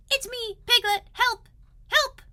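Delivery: a small animal crying out for rescue, pitched high; Piglet calling for help. Acted.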